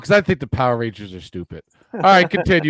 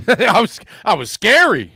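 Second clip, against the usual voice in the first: teasing echo; 7 semitones higher, 4 dB louder than usual. Retold or imitated.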